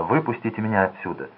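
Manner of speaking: ordinary delivery, nothing marked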